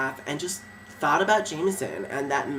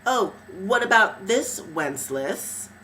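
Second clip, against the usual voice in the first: triumphant taunt; 5 semitones higher, slower than usual. Retold or imitated. She taunts the lord, amulet raised, gloating. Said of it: "I held it up and said".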